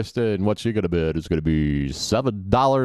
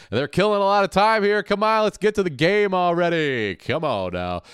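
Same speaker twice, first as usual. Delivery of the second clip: impatient urging; 8 semitones higher than usual. Real, not acted. Impatient at stalling show.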